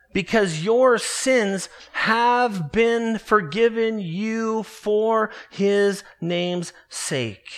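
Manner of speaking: slow, deliberate verse reading; scripture reading. Acted. Pastor reading the epistle to his congregation, slow and solemn. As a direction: read it out slowly like holy writ.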